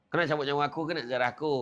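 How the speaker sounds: rattled off fast, like a routine exchange; quick retelling. Shown as a demonstration. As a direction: fire the question off quickly. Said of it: "Ha, macam tu lah". (soalan cepat dan bersahaja)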